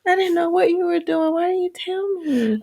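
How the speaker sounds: excited greeting. Real, not acted. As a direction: greet the crowd with playful surprise. Wife greets the stream viewers.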